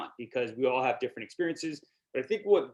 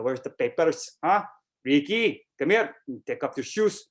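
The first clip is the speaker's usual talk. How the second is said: light imitation of a Filipino mom accent. Friends imitating a Filipino mom at home, light Filipino accent. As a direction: lightly mimic a Filipino mother calling her son. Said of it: "they all can talk like my mom".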